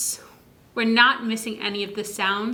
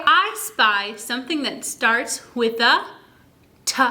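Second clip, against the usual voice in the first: I Spy game voice. Shown as a demonstration. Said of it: "So I'd say".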